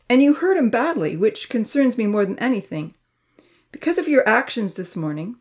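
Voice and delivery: stern, harsh telling-off; harsh scolding. Acted. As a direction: lay into them like a disappointed uncle. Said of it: "speak so harshly".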